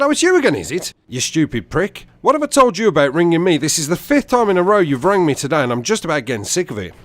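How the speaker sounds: high, loud outburst; irate stranger. Retold or imitated. Irate stranger to mistaken repeat caller, angry tirade. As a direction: imitate an angry man cutting the caller off.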